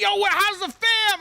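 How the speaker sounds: bro voice. Retold or imitated. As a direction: gush like an overfriendly gamer bro. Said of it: "And he's like".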